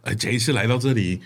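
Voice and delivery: mock Hong Kong Cantonese accent; imitating a singer's Cantonese accent. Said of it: "你有一点那个腔像一位歌手的".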